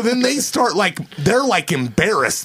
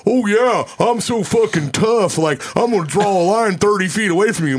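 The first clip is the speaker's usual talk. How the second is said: mock tough-guy voice, taunting; hammed-up taunt of a drunk braggart; 4 semitones higher than usual. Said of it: "mocking their buddy".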